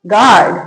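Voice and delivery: गार्ड said as "gaard", no U sound; silent U. Shown as a demonstration. Teacher reading out the spelling for learners, गार्ड with silent U. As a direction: model गार्ड with the U left silent. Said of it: "क्या पढ़ेंगे".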